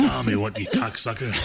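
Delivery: brash comic impression through laughter; Joey Diaz. Joey Diaz greeting Tommy, brash impression. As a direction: curse your pal affectionately in his voice. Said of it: "That's a good Joey Diaz impersonation".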